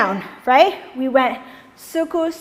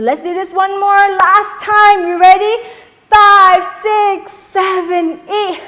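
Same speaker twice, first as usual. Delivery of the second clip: loud, higher count-in; energetic count-in; 5 semitones higher, 7 dB louder than usual. Shown as a demonstration. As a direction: pump them up on the count. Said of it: "count-in before dancing".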